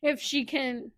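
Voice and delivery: raspy smoker's throat; scratchy, rough-throated delivery; hoarse voice. Real, not acted. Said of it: "I sound like a smoker".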